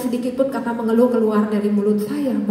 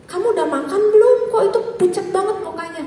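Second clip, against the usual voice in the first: raised pitch, quick worried questions; concerned questioning; 7 semitones higher, faster than usual. Retold or imitated. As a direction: imitate a lecturer fussing over a student. Lecturer questions pale student, acted.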